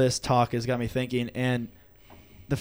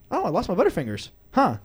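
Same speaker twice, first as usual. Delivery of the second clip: higher mock-bewildered voice; puzzled kid; 4 semitones higher than usual. Kid finding the candy gone, innocent puzzlement. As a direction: imitate a kid noticing something missing.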